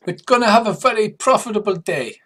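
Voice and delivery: high, loud creature trader; Morricanth voice. Acted. Morricanth sizing up the visitors, high and loud. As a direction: pitch it up and project in character. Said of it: "what accent I'm using for the, uh, Morricanth".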